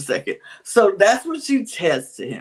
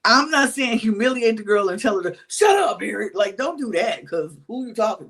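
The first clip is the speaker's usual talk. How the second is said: raised voice aimed at Harriet; calling out Harriet; 2 semitones higher than usual. Real, not acted. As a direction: call her out directly, voice up. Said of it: "addresses Harriet directly".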